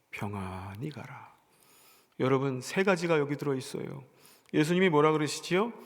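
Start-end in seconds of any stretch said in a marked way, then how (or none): 0.1-1.4 slow, breathy whispered send-off; gentle whisper of peace to the woman; whispered blessing. Acted. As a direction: breathe the blessing softly, almost a secret. Jesus sending the woman off.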